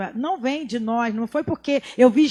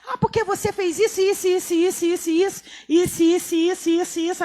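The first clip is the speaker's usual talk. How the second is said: nagging complainer; 5 semitones higher than usual. Retold or imitated. Mocking someone nagging in argument.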